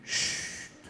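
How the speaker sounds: a soft unvoiced hush; angel's whisper. A narrator's reading. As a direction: whisper it like an angel over a cradle. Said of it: "qui nous fait". (un « chut » chuchoté)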